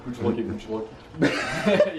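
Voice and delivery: rushed tongue twister, stumbling; tongue twister fast. Shown as a demonstration. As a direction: rattle it off quickly. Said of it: "Say it five times fast".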